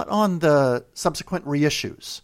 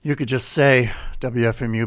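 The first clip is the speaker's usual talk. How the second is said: mock sultry pledge plea; 3 semitones lower than usual. Mock devotional pledge pitch.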